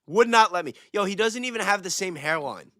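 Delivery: ordinary talk, nothing marked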